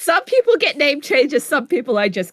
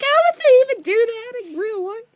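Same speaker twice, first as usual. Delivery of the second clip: incredulous quote; 11 semitones higher than usual. Retold or imitated. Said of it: "I'm like".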